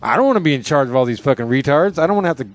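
mildly flustered imitation of a boss; scrambling excuse. Boss answering the wife's challenge, imitated flustered excuse. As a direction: grope for a comeback, lightly mocking. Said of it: "scrambling for something to say".

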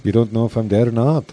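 lightly attempted Liverpool accent; half-successful Liverpool impression; a musician. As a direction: put on a rambling Liverpool musician's accent. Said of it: "really good impersonation of John Lennon".

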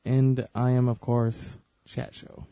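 lightly imitated host, trailing off to a breathless whisper; a hint of the podcast host's sign-off, fading out; Kevin Pollak impression. Mimicking Kevin Pollak's show intro, voice dropping away. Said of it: "And he always says".

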